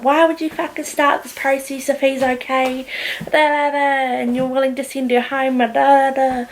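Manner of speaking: imitating a mum's indignant rant; angry mum. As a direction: demand answers, filling in with da-da-da. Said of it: "She was so angry".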